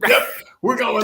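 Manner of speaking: laughing while talking. Real, not acted. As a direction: laugh through the words. Laughing at the story.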